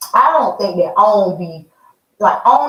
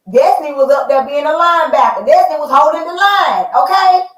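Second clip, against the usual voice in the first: hyped up; 6 semitones higher, 3 dB louder than usual. Real, not acted. Excited recap of the fight.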